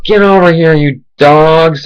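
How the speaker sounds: high mock yell at her dogs; retold yell. Owner calling her dogs back, high mock yell.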